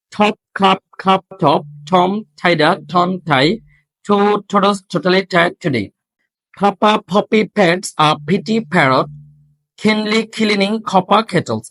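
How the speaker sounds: "ঠপ, খাপ" with hard breathy th, kh and ph; aspirated twisters. Shown as a demonstration. Teacher reading aspirated tongue twisters for students. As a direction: puff every stop hard, word by word. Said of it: "সেগুলো হচ্ছে".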